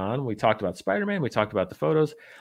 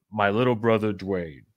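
slow, portentous quote; lightly dramatized solemn reading; mock-solemn letter reading; 2 semitones lower, slower than usual. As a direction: read it like a grave documentary narrator, slowly. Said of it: "I can't do Vin Diesel justice".

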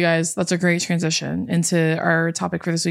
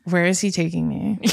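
flat deadpan friend voice; a hint of a bored deadpan friend; impression of Bella. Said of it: "That's my impression of Bella".

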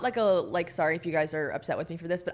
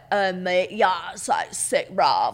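British bruv; 4 dB louder, slower than usual. Retold or imitated. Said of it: "a bruv is someone that's like".

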